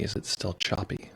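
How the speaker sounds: softly testing the mic; speaking quietly. Shown as a demonstration. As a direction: drop to a hushed test voice. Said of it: "if I'm speaking quietly".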